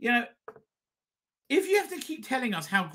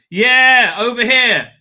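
loud, higher burst of delight; excited recognition; 7 semitones higher, 13 dB louder, much slower than usual. Real, not acted. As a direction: point it out with sudden glee. Excitedly spots the old chippy.

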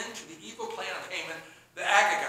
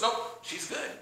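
protective hush; 3 semitones lower, 8 dB quieter than usual. Retold or imitated. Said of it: "he goes".

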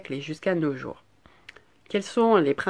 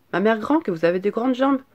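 put-on higher, wondering child voice; astonished little girl; 6 semitones higher, 4 dB louder than usual. A narrator's reading. Girl surprised by grandmother's legs, higher astonished voice. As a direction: exclaim as an amazed child.

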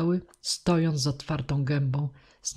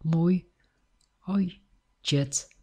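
strange thick voice; 3 semitones higher, much slower than usual. A narrator's reading. Deaf girl naming her father to the teacher, strange halting voice. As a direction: labour out each word like someone new to speech. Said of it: "A dziewczynka grubym, jakimś dziwnym głosem, zupełnie jakby dziki".

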